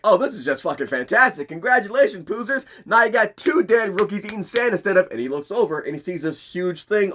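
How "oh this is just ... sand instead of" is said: raised, scornful drill-sergeant voice; sarcastic drill instructor. Retold or imitated. Ermi scolds the rookies for the lost recruit, sarcastic. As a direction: scoff at the rookies' failure. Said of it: "Ermi's like".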